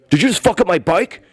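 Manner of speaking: high-pitched disbelieving outrage; indignant retold question. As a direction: confront him over the damage. Retold outrage over broken bike.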